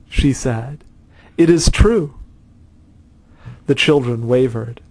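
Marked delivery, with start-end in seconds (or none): 1.4-2.1 high and loud with sudden conviction; excited girl. A narrator's reading. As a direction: burst out, eager and sure. Girl eagerly convinced by tears.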